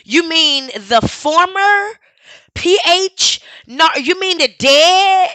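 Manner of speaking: building from slow, sarcastic questions to a loud yell; incredulous rising shout. Real, not acted. Streamer to the chat about the dead expert, incredulous rising shout. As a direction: keep pressing until it bursts out.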